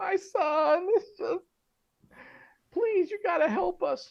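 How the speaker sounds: very high, slow, tearful sobbing plea. Voicing a mother who bursts into tears, pleading for help: mock crying. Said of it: "just bursts into tears".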